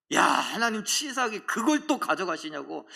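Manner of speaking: lightly acted indignation; retold angry complaint. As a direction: grumble at God, rising to a protest. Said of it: "막 화를 냅니다".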